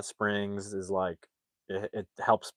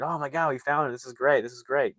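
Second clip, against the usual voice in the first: higher-pitched, quick mock delight; really happy; 4 semitones higher than usual. Family finds the hot springs at last, really happy. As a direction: imitate relieved, happy excitement. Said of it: "they're really happy".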